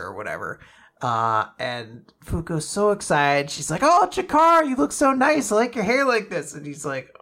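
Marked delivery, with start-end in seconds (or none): 3.8-6.5 high, loud gushing; gushing Fuko. Retold or imitated. Fuko gushing at Chikara, high and eager. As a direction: fawn over him brightly.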